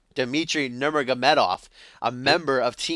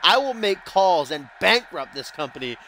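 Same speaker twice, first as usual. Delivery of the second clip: higher-pitched hammed-up Russian accent heel promo; mock Russian accent; 3 semitones higher than usual. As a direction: boast like a Russian villain wrestler, hammed up. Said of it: "should I do that Russian accent?".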